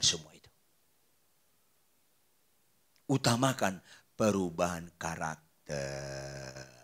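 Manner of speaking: low, soft, measured exhortation; solemn preaching. Real, not acted. Preacher counseling married husbands and wives, hushed and solemn. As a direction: bring it right down and counsel them gravely.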